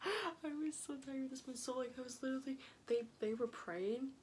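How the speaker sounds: high-pitched, amused through laughter; real laughing. Real, not acted. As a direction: start on a laugh and keep talking. Laughing while telling funny story.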